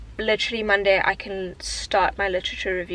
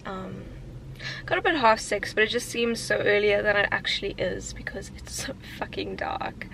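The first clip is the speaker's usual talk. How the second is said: barely awake and husky; sleepy voice. Real, not acted. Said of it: "Excuse my sleepy voice".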